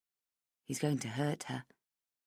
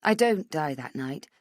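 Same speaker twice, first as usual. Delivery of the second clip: ordinary delivery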